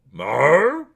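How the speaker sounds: high, loud questioning Wookiee call; Wookiee growl. Acted. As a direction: answer like Chewbacca with a shrug. Chewbacca answers Han's question.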